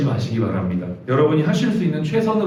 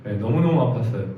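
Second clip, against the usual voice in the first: usual speaking voice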